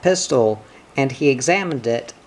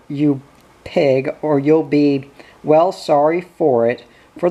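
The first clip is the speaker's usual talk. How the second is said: threatening swearing. Retold or imitated. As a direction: snarl it like a furious soldier. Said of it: "No Jerry could swear like that".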